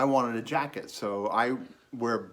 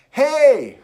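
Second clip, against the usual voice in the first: high, loud hail; shout after someone; 14 semitones higher, 14 dB louder than usual. Retold or imitated. Young man calling after stranger walking away, shout. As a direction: holler to stop someone leaving.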